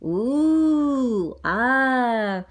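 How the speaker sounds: drawn-out yowling ooh and ah; cat sounds. Acted. Cats heard while peeling shrimp, imitated yowling. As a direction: imitate a cat's long yowl. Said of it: "Is there cat sounds?".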